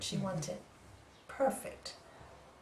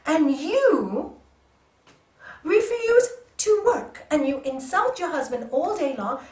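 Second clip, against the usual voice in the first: loud, higher scolding, pushing her to act; rude scolding; 4 semitones higher, 8 dB louder than usual. Retold or imitated. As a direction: shout her into action. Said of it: "I was really quite rude to her".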